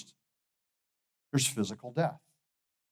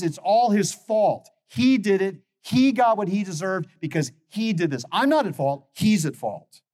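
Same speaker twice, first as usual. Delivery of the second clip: put-on blaming child; 3 semitones higher, 4 dB louder than usual. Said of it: "what Gabriel was saying was".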